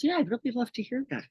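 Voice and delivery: high, fast sarcastic guy voice; mock stretch guy. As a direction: toss off a sarcastic reply in a high voice. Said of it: "He goes".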